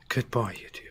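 soft whispered farewell; whispered goodbye. Acted. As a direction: breathe the goodbye almost silently.

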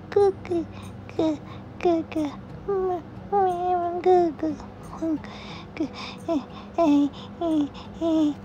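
put-on high cooing baby talk; goo-goo to a sleepy infant. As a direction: coo softly to soothe the baby.

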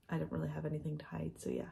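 quick unvoiced whisper. Real, not acted. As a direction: whisper it fast, like a secret. Confessing the house price.

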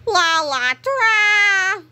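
high, slow, loud heroic call; caped hero announcing himself; hero fanfare. Acted. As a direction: sing it out like a superhero. Superhero fanfare.

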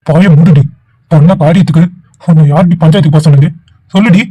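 loud furious scolding of his sister; angry shout. Acted. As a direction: bark at her to shut up. Brother scolding sister after slapping. (தங்கையை கோபமாக திட்டும் அண்ணன், உரத்த குரலில்)

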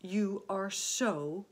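slow, fond admiring praise; lightly voiced doting old grasshopper; affectionate. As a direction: linger gratefully over each phrase. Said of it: "laying a front leg affectionately".

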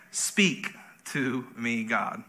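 slow, low, soft plea to God; softly intoned, word by word; solemn hushed prayer. Acted. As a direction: breathe it out slowly, almost whispered. Solemn key prayer pronounced.

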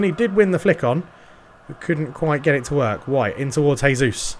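lightly done play-by-play commentator voice; TV football commentary. Acted. Gamer narrating his FIFA match to viewers, light commentator style. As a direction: call the match like a TV pundit.

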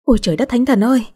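a fast hammed-up yelp of shock; startled cry. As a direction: jump and cry out in fright. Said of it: "la lên".

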